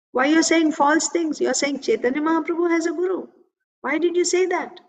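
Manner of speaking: retold indignant scolding, pitch climbing; mildly angry reproach. Son scolding his father for a bad example, mildly angry. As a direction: act out an aggrieved, accusing son. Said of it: "angrily he said all this".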